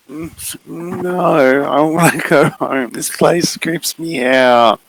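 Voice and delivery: lightly voiced frightened kid wanting home; scared girl. Maddie telling the figure she wants home, uneasy.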